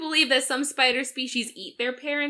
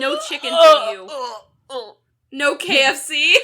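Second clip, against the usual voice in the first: playful scolding, a bit louder; mock scolding; 4 dB louder than usual. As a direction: tease him like a stern parent. Teasing McFour for eating eggs.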